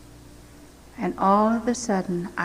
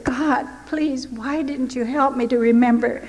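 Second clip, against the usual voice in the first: pleading prayer, pitched higher and rushing; fearful prayer; 3 semitones higher than usual. Retold or imitated. Retelling her panic in the cell, a frightened plea. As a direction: beg God as the dread rises. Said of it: "Oh, the fear that came over me".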